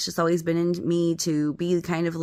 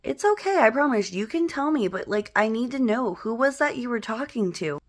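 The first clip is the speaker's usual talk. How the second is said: coaxing reassurance; 6 semitones higher than usual. Retold or imitated. Coaxing frightened little brother again.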